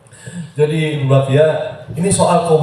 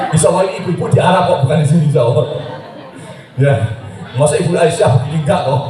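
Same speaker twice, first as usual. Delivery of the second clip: laughing tease; 5 semitones higher, faster than usual. Real, not acted. Joking aside to the women.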